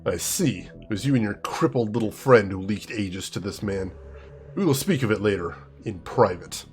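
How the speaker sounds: clipped disapproval, voice turned to ice; icy father. Acted. Father rebuking his daughter, lightly voiced cold tone.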